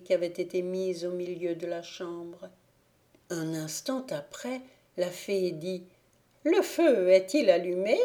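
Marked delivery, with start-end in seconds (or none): 6.4-8.0 calling out. Acted. Fairy calls to the doll.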